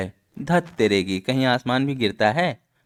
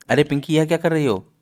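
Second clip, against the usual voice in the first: raised, higher-pitched exclamation; astonished question; 5 semitones higher, 4 dB louder than usual. Acted. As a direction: ask in amazement what is going on. Nurse finds girl shaking herself.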